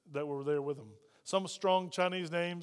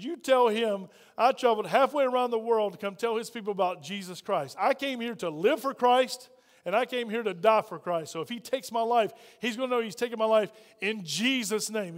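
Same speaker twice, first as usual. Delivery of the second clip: declaring he'll die for Christ; defiant insistence; 3 semitones higher, 4 dB louder than usual. Retold or imitated. Defiant retold order to translator.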